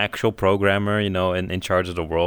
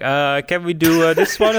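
hesitant hammed-up parent voice; 7 semitones higher, 5 dB louder than usual. Parent asks hospital for name.

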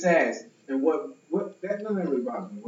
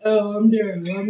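lower, puffed-up man voice; deep man voice; 6 semitones higher, 6 dB louder than usual. Retold or imitated. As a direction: put some bass in it, mockingly. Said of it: "put some bass in your voice".

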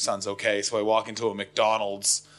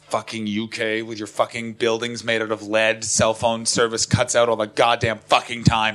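exasperated rant; 5 dB louder than usual. Retold or imitated. Acted rant at cut-off call.

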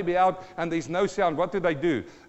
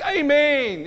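raised, loud "Amen"; praise exclamation; 7 semitones higher, 7 dB louder than usual. Shown as a demonstration. Preacher contrasting praise with murmuring, loud exclamation. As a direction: proclaim it high and loud. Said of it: "It's not a sound like".

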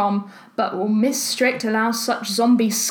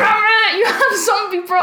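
loud, high, laughing outburst; surprised; 8 semitones higher, 4 dB louder than usual. Real, not acted. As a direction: caught off guard and delighted. Friend owns the obscure album.

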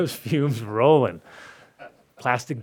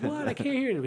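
imitating Vinny; 14 semitones higher, 4 dB quieter than usual. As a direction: play the deafened rocker, pitched up.

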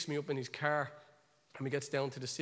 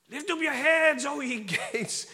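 high, raised-voice declamation; proclaimed psalm; 8 semitones higher, 7 dB louder than usual. Retold or imitated. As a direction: call the psalm out aloud. Acted loud psalm prayer with shofar.

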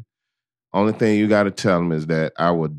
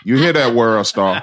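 calling out; 2 semitones higher, 5 dB louder than usual. Acted. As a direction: shout it out to the website. Calls out to World Star.

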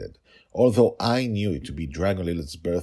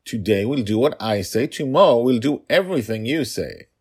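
bargaining father voice; 6 semitones higher, 6 dB louder than usual. Acted.

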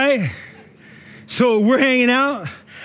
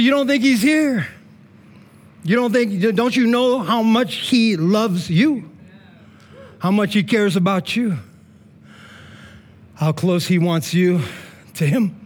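gentle pastor. Retold or imitated. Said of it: "And I said".

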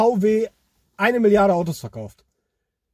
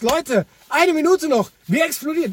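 clickbait video narrator; 7 semitones higher than usual. Retold or imitated. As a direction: hype it like doomsday clickbait. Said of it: "die wollen dieses".

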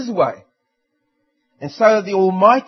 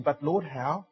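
feigned ignorance; 5 semitones lower, 9 dB quieter than usual. Retold or imitated. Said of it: "You feign ignorance before God".

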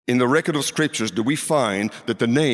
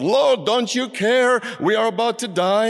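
crying out; 9 semitones higher than usual. Retold or imitated. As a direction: cry out to the Lord as if about to drown. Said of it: "they cried out to the Lord".

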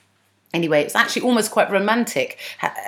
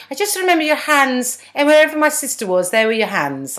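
higher-pitched, mock-polite retelling; more polite; 5 semitones higher than usual. Retelling aunt's remark to an old friend, mock polite. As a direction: put it politely, a touch prim. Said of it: "She says it slightly more politely".

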